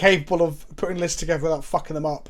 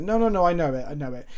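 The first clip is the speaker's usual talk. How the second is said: lightly imitated French accent; a hint of a French opponent's accent; 4 dB quieter than usual. French opponent waving off the card question, lightly imitated French accent. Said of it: "in his French accent".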